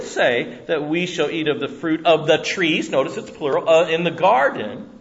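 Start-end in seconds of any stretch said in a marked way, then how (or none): none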